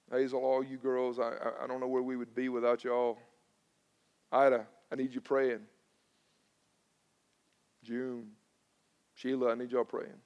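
low, hushed appeal by name; quiet heartfelt plea. Retold or imitated. Preacher asks elderly church women for prayer, quiet plea. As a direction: ask softly, leaning on them.

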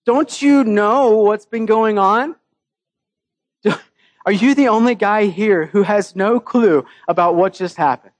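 a hint of an incredulous friend scolding; mild scolding. Preacher voicing Cleopas scolding the stranger, mild exasperation. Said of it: "Cleopas kinda scolds Jesus".

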